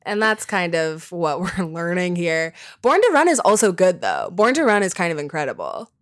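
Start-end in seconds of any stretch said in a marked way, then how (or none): 2.8-4.8 choppy, breaking-up call audio; corrupted glitchy audio. Real, not acted. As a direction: voice dropping out on a bad connection. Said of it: "your sound is cutting out even worse".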